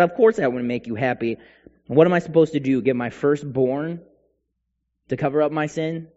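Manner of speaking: exasperated acted complaint to God; mildly sarcastic. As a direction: protest with a touch of sarcastic exasperation. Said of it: "they sarcastically say this to God".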